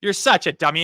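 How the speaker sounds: loud scornful mock of a know-it-all fan; mocking hindsight critic. Host mocks hindsight critics, loud and scornful. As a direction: sneer it out like a smug critic. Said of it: "look back with hindsight and say".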